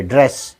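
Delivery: ड्रेस with a long held "sss"; lengthened final s. Shown as a demonstration. Teacher showing learners the double s, lengthened ending. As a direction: hold the s at the end of ड्रेस. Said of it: "थोड़ा सा लंबा करेंगे".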